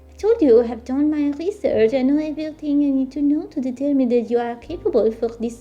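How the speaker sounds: put-on French-accented witch. Witch insisting on her research, French accent. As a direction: keep up the put-on French English. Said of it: "the subtle French accent".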